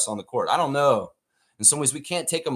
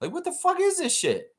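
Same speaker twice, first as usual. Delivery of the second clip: mock disbelief; 5 semitones higher than usual. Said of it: "I'm like".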